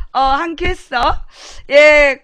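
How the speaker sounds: ordinary talk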